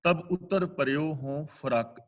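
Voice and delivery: slow, measured scripture recital; slow verse recitation. Shown as a demonstration. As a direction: intone the line slowly, each word weighed. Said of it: "ਅਗਲਾ ਬਚਨ".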